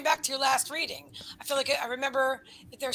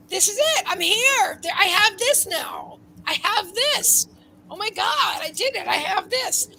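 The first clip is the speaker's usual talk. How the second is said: higher and louder, thrilled to have it; excited joy; 6 semitones higher, 5 dB louder, slower than usual. Pretend. Reader voicing a client who suddenly has what she wanted, excited. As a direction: burst out in delighted disbelief. Imagined joy of achieving goal.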